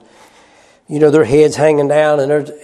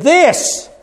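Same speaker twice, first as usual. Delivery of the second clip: high, slow, disgusted "this"; mocking sneer; 6 semitones higher than usual. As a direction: spit out their contempt. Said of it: "they said".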